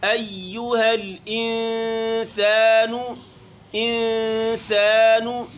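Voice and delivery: أَيُّهَا with lips unrounded on ay, then rounded on yu; أَيُّهَا, lips flat first, then rounded. Shown as a demonstration. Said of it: "پھر یو پڑھتے وقت ہونٹ گول ہوں گے".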